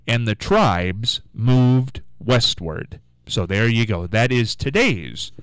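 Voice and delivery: measured radio read of a history feature; scripted history read. Acted. Reads a scripted radio history segment.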